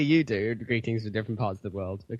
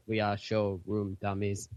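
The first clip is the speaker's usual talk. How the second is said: mock robot lyric; 3 semitones lower, slower than usual.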